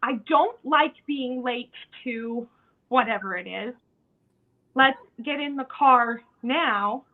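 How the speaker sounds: name the anger firmly, don't explode; calm but firm anger. Shown as a demonstration. Parent to kids late for the car, firm and loud. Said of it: "For example".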